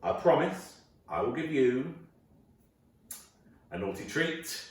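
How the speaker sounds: slow, teasing wife; slowly, dangling a naughty offer; a hint of a sultry wife; wife's promise. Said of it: "She said".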